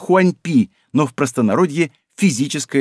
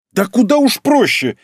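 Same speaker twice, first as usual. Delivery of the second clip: high, exasperated outburst; indignant retort; 8 semitones higher, 4 dB louder than usual. A narrator's reading. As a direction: pitch it up in indignant disbelief. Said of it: "возмутилась Хирану". (возмущённо, на повышенном тоне)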